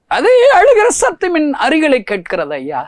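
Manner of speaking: high, loud anguished preaching cry; preaching at full force. Acted. Preacher crying out to the crowd about Jesus weeping. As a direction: lift it into a ringing pulpit cry.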